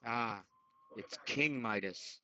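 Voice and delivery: ordinary talk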